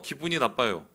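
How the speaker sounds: usual speaking voice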